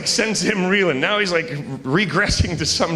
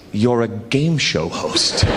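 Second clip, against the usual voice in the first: lower, slow, leaning on game show host; low deliberate reveal; 6 semitones lower, slower than usual. Retold or imitated. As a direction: say it slowly and low, right in his face. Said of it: "He gets even closer and he says".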